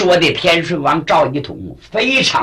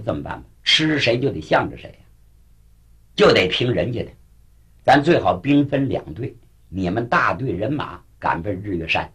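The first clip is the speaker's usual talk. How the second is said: lightly voiced leader, lower and softer; deliberating leader; 5 semitones lower, 4 dB quieter than usual. Xia tells his men to split into two parties, lightly voiced deliberation. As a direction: talk a plan through in a subdued voice.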